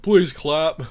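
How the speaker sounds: lightly voiced pleading politician; Jeb Bush. Comedian's politician begs an audience, light Jeb Bush impression. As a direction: plead softly, a hint of impression. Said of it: "we've got Jeb Bush".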